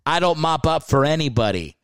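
lightly put-on Southern football player accent; mock Southern accent. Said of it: "ridiculous Southern accent".

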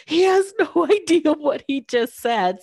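high, laughing aside of disbelief. Retold or imitated. To her mom about the doctor, laughing in disbelief. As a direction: laugh it off as if he doesn't get it. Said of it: "my mom and I are looking at each other like".

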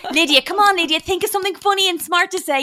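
loud, high-pitched urging; mock exasperated pleading. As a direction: plead with her in hammed-up exasperation. Mock pleading with Lydia's bad comeback.

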